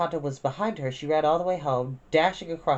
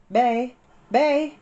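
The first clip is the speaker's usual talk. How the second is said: high, loud shout across the yard; calling out; 9 semitones higher, 7 dB louder than usual. A narrator's reading. Big sister calling for her missing sister, loud and high. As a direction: call for a lost child.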